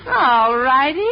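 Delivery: ordinary talk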